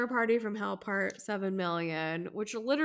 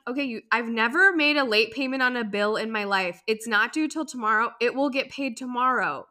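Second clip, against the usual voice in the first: mock irritated; 6 dB louder than usual. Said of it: "I'm like".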